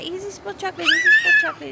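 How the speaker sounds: high, rising mock shriek; retold child's scream. Three-year-old alerting mom to the spill, imitated shrill scream. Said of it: "starts screaming that".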